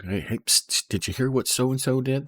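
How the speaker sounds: lightly voiced gossip with a pssst; mock gossip. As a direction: imitate someone eagerly passing on a secret, pitch lifting. Acts out a gossip calling someone over.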